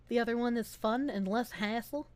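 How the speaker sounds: ordinary talk, nothing marked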